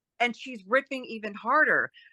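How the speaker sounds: normal talking voice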